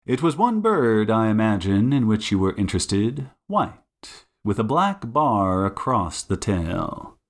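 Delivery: deduce it teasingly, piece by piece; Sherlock Holmes. Acted. Detective narrowing geese to one bird, knowing and measured.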